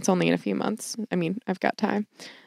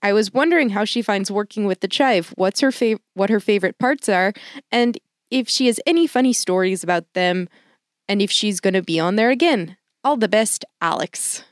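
light, slightly Midwestern Canadian accent. Shown as a demonstration. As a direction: read the email in a Canadian accent. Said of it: "that was my Canadian accent".

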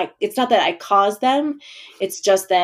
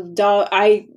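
caveman talk. Pretend. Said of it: "I don't know why I'm talking like a caveman".

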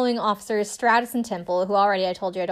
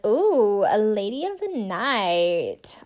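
drawn-out slow mocking ooh; much slower than usual. Officer mocking the prostitution call, slow and snide. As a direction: tease it slowly like a snide joke. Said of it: "all, like, mockingly".

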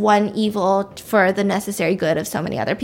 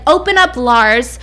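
calling out; 2 semitones higher, 6 dB louder than usual. Retold or imitated. Brother outside the locked door yelling to Lars, demanding. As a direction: raise the voice sharply to be let in.

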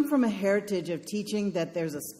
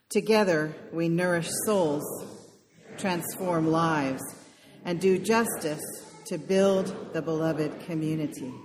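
congregation reciting together; many voices speaking in unison; group in unison; slower than usual. Real, not acted. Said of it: "we say it together on Sundays".

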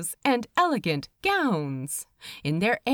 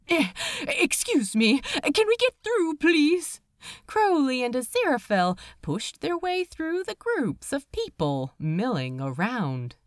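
raised, apologetic call over the crowd; polite calling out; 5 semitones higher than usual. Acted. Angel squeezes past guests, calling apologetically. Pushing through crowded lounge.

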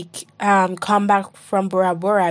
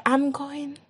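mock announcement; 5 semitones higher than usual. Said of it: "I didn't even say".

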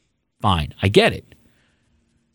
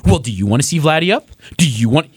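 smug mocking tone. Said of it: "and this is the tone he had".

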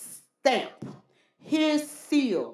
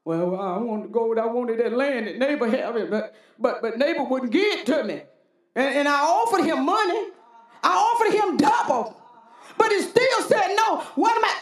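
sulking king. Retold or imitated. Preacher voicing the king complaining to Jezebel. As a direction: complain and build to a hint of a yell. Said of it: "king answers Jezebel".

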